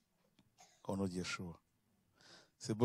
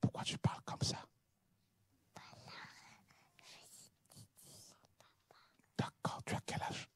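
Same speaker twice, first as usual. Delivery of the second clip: chuchoté; 10 dB quieter than usual. Real, not acted. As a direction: question chuchotée, sans voix. Chuchote avec l'enfant. (le pasteur chuchote à l'enfant timide)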